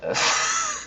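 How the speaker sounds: quiet, unvoiced laugh; breathy laugh. Real, not acted. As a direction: let out a soft, spent laugh. Reacts to long rant.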